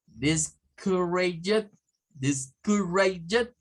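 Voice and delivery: slow "Discouraged" with schwas in the weak syllables; two-schwa pronunciation. Shown as a demonstration. English teacher models a word with two schwas, slow schwa pronunciation of "Discouraged". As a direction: stretch "Discouraged" out slowly, vowels reduced to schwa. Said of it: "en donde se utilizan dos shuas".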